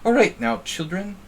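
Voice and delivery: high-pitched prim and proper nanny, loud at the start; Mary Poppins. Acted. Streamer mimicking a prim nanny addressing children, prim and proper. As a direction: chirp it high and properly, like a governess. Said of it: "like a male Mary Poppins".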